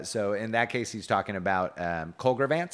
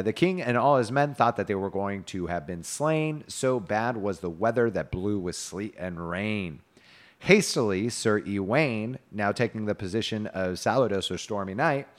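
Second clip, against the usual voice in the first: tale narration; 3 dB louder than usual. A narrator's reading. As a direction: recite an old romance with deliberate emphasis. Reads medieval tale aloud.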